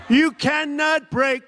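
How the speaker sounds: scornful imitation of the experts; mock pundit claim. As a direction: throw their slogan back at them. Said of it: "they said".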